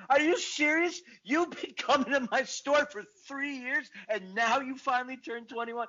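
retold conniption. Bodega owner scolding her longtime underage customer, mock disbelief. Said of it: "she just had a conniption".

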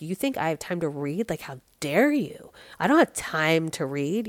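indignant retort with punched, swooping stresses; a retold, affronted comeback; proud resentment. Retelling her old comeback to someone asking about books, proudly resentful. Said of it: "with pride, but resentment, really".

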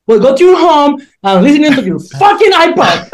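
high-pitched, exasperated comeback; fed up. Retold or imitated. DJ dismissing the girl who kept asking, fed-up retelling. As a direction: act out telling off a pest, breaking into a laugh. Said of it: "just had enough of it".

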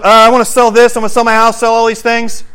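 high, loud eager rush; acted-out giddy man selling off everything; excited seller. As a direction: burst out with high-pitched eagerness. Acts out the man frantically selling.

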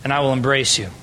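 soft, low, tender invitation; quietly tender welcome; gentle invitation. Retold or imitated. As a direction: offer it like open arms.

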